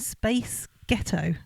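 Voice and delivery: put-on drawn-out Space Ghetto, meant as Scottish Spice Girl; American accent trick for Scottish. Shown as a demonstration. Co-host tries the Spice Girl trick, slow put-on accent. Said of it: "Spice Girl in a Scottish accent".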